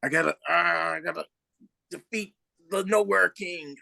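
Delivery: earnest questing hero voice; heroic horse voice. Retold or imitated. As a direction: declare the mission like a brave hero. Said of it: "the horse is like".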